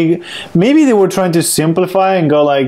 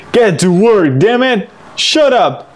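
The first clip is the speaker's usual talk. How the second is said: mock anger; 3 semitones higher, slower than usual. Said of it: "that title is full of anger".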